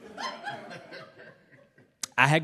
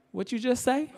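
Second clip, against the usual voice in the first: menacing mother; 11 semitones higher than usual. Retold or imitated. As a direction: lean in and dare him to repeat it. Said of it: "she was like".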